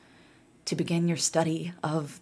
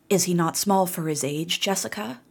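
put-on wheezy old crone. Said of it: "Her voice wheezed and twanged".

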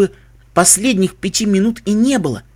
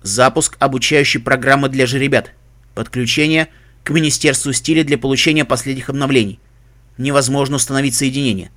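even, mechanical system voice; robot voice; 5 semitones lower than usual. Acted. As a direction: read like an installer. Suit computer reports. (механический голос)

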